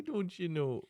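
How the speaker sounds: a quick jokey quote; mock Canadian phrase. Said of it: "I thought Canadians say".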